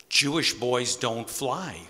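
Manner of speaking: slow, lightly imitated German accent. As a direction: imitate a German grandmother, slowly. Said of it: "in her heavy German accent".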